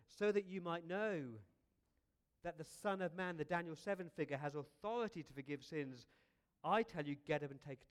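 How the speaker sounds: bold declaration. Retold or imitated.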